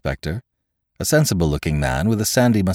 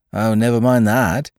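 agitated, higher and pressing; feverish; 5 semitones higher, 4 dB louder than usual. A narrator's reading. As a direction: blurt it out in a fever. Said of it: "cried Gibbs in a fever".

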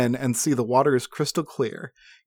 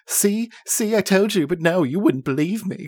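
higher, anxious little voice; panicky halfling; 6 semitones higher than usual. Acted. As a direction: blurt it out in a panic. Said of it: "cries the halfling".

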